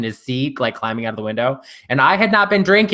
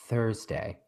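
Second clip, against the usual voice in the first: Thursday said soft and low, drawn out; lightly voiced Patsy from Ab Fab; Patsy bit; 6 semitones lower, 13 dB quieter than usual. Shown as a demonstration. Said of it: "Every time I said Thursday".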